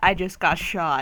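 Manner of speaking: ordinary talk, nothing marked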